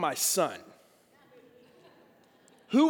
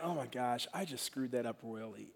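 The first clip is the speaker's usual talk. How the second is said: dismayed self-talk; 9 semitones lower, 15 dB quieter than usual. Retold or imitated. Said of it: "where I'm like".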